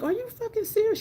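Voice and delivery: high, hushed disbelief; squeaky acted-out astonishment; incredulous. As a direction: retell shock in a high, lighter voice. Replays disbelief at seizure remark.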